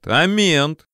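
повыше, протяжный выкрик; брось вдогонку с издёвкой; насмешливо вслед. A narrator's reading. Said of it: "хохотнул я ему вслед". (насмешливый оклик вдогонку)

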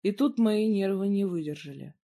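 ordinary delivery

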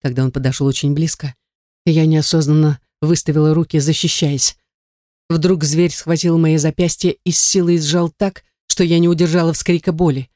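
ordinary delivery, nothing marked

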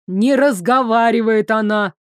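a lightly barked denial. Acted. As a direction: bark it out to shut him up. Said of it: "рявкнул Вышеслав".

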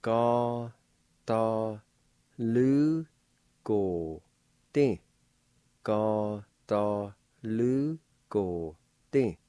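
"Ga, da, lu, go, di" each syllable apart; teacher model of "Ga, da, lu, go, di". Shown as a demonstration. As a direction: tap out "Ga, da, lu, go, di" slowly. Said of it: "It's pronounced like this".

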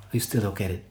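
exasperated agent. Retold or imitated. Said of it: "Und der hat immer gesagt so".

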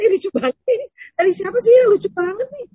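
high, delighted chatter over a funny video; amused exclaiming. Acted. Wife to husband about a funny video, amused exclaiming.

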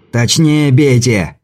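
slow shouted order while running; while jogging. Acted. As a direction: call it out mid-run. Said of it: "крикнул на бегу Кобельков".

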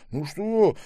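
put-on a touch of the old man's pleading. A narrator's reading. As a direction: ask as the old man. Old man asks.

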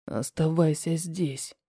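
said with disgust. A narrator's reading. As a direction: spit it out slowly with disgust. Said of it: "выговаривает, с отвращением озираясь". (Руслан с отвращением, низко и медленно)

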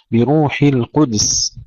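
slow بروح القدس with a vowelless د; still dal. Shown as a demonstration. Teacher models Ibn Kathir's reading, still dal. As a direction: close القدس as "quds", no u after د. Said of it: "إسكان الدال أيضًا في كلمة القدس".

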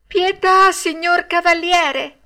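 very high, loud, drawn-out plea; pleading. A narrator's reading. Pinocchio tries flattering the puppet master with titles, high and pleading. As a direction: plead loudly, stretching the words. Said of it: "con voce supplichevole".

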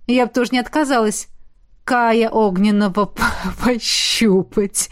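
a giggle breaking into the words, slowing at the end; giggling. Acted. Molly joking about touching a star, giggling. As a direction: tease with a snicker. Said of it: "хихикнула она".

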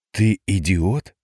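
slow, scornful disbelief; scornful grimace. A narrator's reading. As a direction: sneer it out slowly. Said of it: "скривилась его девица".

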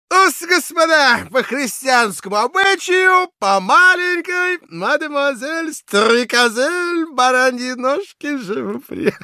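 put-on high, loud, slow drunken toast; tipsy toastmaster. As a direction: ham up a merry reveller. Drunken toast in next room.

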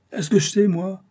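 éclat bourru, plus aigu et plus fort; s'écrier, agacé et sur la défensive; ton bourru. A narrator's reading. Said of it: "d'un ton bourreux". (s'écrier d'un ton bourru, plus haut et plus fort)

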